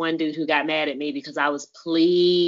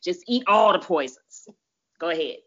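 sarcastic; 8 semitones higher, 4 dB louder than usual. Acted. Sarcastic mock permission.

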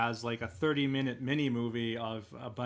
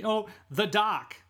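mock Marty, drawn out; 7 semitones higher, 3 dB louder, slower than usual. Marty's new phrasing.

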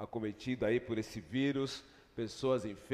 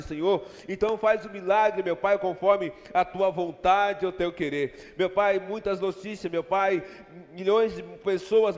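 higher and louder, crying out to God in rising intercession; fervent prayer; 9 semitones higher, 9 dB louder than usual. Acted. Pastor interceding for hospitals and nation, fervent loud prayer. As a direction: pour it out, pleading hard for the nation.

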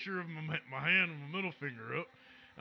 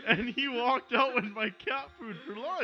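higher, louder, slow whiny voice; cat voice; 6 semitones higher, 5 dB louder, slower than usual. Acted. The cat complaining about Andy, whiny. Cat's voice.

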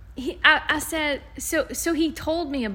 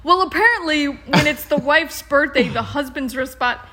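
mocking complainant; 4 dB louder than usual. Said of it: "the complainant in court".

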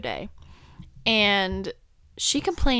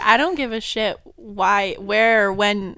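entitled rant; 8 dB louder than usual. Retold or imitated. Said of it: "just the way he said it".

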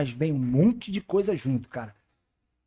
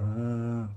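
mock groaning; 7 semitones lower, 6 dB quieter than usual.

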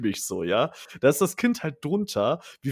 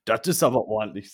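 doctor's grim remark; 3 semitones lower, 3 dB louder than usual. Retold or imitated. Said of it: "sagt er so".

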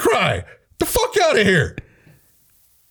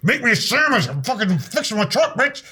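toxic macho man; 2 semitones higher than usual. Acted. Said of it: "Not this toxic masculinity".

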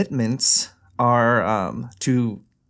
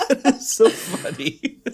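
high laughing through the words; laughing hard; slower than usual. Real, not acted. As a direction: barely get it out through laughter. Laughing at their own joke.

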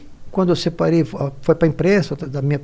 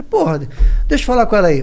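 excited demand; 2 semitones higher, faster than usual. Retold or imitated.

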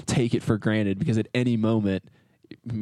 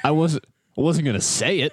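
laughing; 4 semitones higher than usual. Real, not acted. Laughing at driver's remark.

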